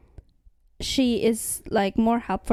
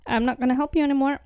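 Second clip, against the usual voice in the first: higher, pushy threat; menacing ultimatum; 4 semitones higher, much faster than usual. Retold or imitated. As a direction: lay down the ultimatum. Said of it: "It's like".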